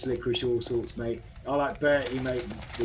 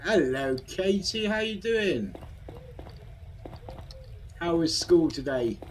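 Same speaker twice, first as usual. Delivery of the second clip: put-on higher, sing-song greeting to a child; sweet greeting; 6 semitones higher, slower than usual. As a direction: greet her like a cheery parent. Greeting a game character.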